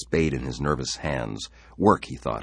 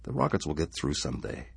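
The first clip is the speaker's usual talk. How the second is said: gentle reassurance; 5 dB quieter than usual. Acted. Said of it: "stroked Laura's head".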